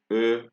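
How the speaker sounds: E as a French "uh"; French unaccented E. Shown as a demonstration. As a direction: say E as a rounded schwa. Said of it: "they change the sound".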